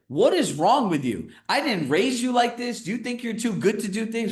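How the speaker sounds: mock a mother's outraged scolding; indignant mom. Son imitates his mom scolding him, high and outraged. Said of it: "My mom's like".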